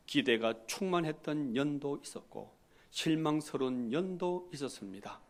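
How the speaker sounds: solemn, slow American missionary Korean; korean american accent korean. Retold or imitated. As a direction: preach gravely in halting foreign Korean. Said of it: "이렇게 근엄하게 설교를 하십니다". (근엄한 미국인 선교사 한국어 말투)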